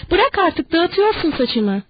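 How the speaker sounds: panicked woman yelling to stop; sudden shout. Acted. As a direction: snap out, then drag it slowly. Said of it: "Sonra birden bağırdı".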